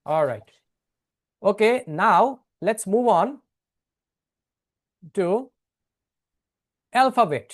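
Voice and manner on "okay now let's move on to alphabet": drawn-out transition. Shown as a demonstration.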